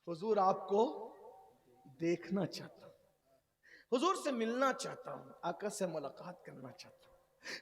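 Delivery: low, soft, tender telling; hushed story voice. Acted. Preacher softly tells of the man weeping at the door. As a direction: draw the crowd in with a hush.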